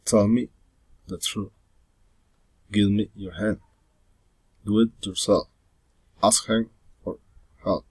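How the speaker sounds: each command falling at the end, down on "help"; firm commands closing on a fall, as in "Give me your hand"; falling intonation. Shown as a demonstration. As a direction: let "hand" and "help" drop. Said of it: "falling intonation".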